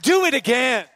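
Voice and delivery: loud, high shouted response; shouted call. Shown as a demonstration. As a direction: shout it for the crowd to repeat. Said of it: "Somebody say".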